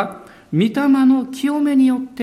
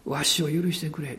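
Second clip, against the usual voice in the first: quiet plea; 5 semitones lower, 8 dB quieter than usual. Retold or imitated. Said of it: "奥さんの名前を呼んで、こう言ったんです".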